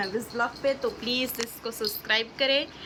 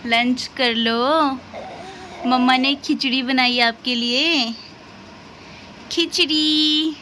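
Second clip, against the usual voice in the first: louder, slow sing-song call to eat; 3 dB louder, slower than usual. Real, not acted. Mother calling her baby girl for lunch, louder slow sing-song.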